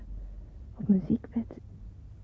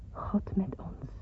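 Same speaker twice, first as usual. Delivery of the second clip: softly whispered, stress on met; hushed quote; 8 dB quieter, slower than usual. Acted. Describing her gift to her parents, hushed reverent quote. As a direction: set the words apart like sacred text. The words embroidered on the handkerchiefs.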